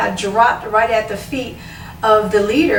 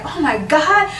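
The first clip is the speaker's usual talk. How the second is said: higher retold astonishment; amazed; 5 semitones higher than usual. Woman watching people fall, higher amazed exclaim. People dropping when touched.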